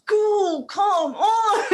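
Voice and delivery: high, loud "go, come on" at traffic; mock impatient driver. A driver stuck in traffic, urging the car ahead in mock impatience. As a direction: hurry the car ahead along.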